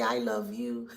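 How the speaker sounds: mock declaration of love, dropped very low; insincere love declaration. Karmic ex coming back to say it, insincerely and low. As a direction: imitate a false sweetheart in a deep, low pitch. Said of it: "the way they stress that word".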